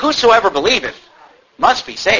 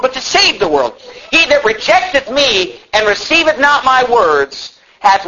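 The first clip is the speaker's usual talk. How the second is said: emphatic scripture proclamation, moderately raised; crying out; 6 semitones higher than usual. Acted. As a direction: proclaim it out to a crowd. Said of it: "Jesus have shouted these words".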